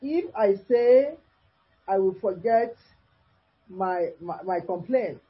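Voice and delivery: slow, deliberate reading with long pauses between phrases; scripture reading. Acted. Preacher reading Job's lament to listeners, measured scripture reading. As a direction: read the verse out phrase by phrase.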